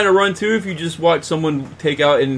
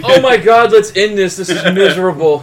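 exasperated; 3 semitones higher, 4 dB louder than usual. Real, not acted. Co-host begs to end the accent gag, exasperated. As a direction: groan at a bad running joke.

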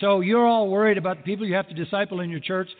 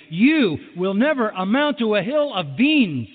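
stern dad; 4 semitones higher than usual. Retold or imitated. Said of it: "My dad used to say to me".

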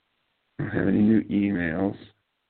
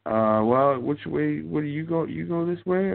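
confused dog walkers; 8 semitones higher, 3 dB louder than usual. Retold or imitated. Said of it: "they were like".

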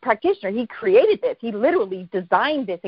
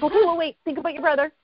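higher-pitched, insistent prompting; eager retold prompting; 6 semitones higher, faster than usual. Practitioner testing her friend on her brother, eager retelling. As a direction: test her with one more thought.

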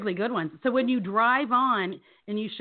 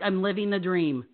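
lower, deadpan imitation of a gate guard; 5 semitones lower than usual. Gate guard answering a driver's greeting, deadpan. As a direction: say it deadpan, pitched down. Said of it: "he says it so deadpan like that".

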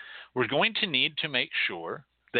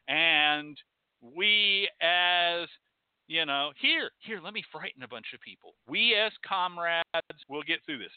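earnest pledge; 5 semitones higher than usual. Retold or imitated. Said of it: "we say to Obama".

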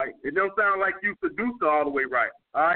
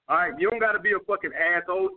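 usual speaking voice

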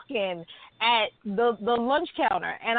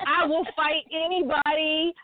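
slow, higher tough-talk; hammed-up threat; mock tough boast; 4 semitones higher than usual. Cohost hamming up her vow to fight, tough.

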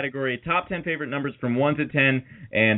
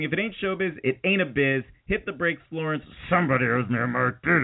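showbiz sign-off. Pretend. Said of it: "ending the show by saying".

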